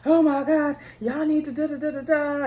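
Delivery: flustered panic. Retold or imitated. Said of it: "She's like".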